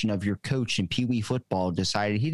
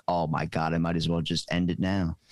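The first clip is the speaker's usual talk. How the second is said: mock despair; 5 semitones lower than usual. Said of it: "It's like".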